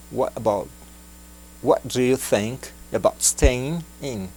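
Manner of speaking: slow, soft and kind; gentle question. Shown as a demonstration. Learner asking a friend gently to stay, slow and soft. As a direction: ask kindly, slowly, not to push. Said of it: "perguntar de forma gentil".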